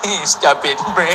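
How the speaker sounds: words breaking up with laughter; stifled laughter. Acted. Visitor failing to keep a straight face, laughing. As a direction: try to echo the scolding but giggle through it. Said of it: "And I was like".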